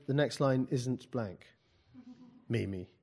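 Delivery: slow, measured rebuttal dropping at the name; teacher's correction. Acted. Teacher answers student who claims a blank line, measured correction. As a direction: correct the student slowly and evenly.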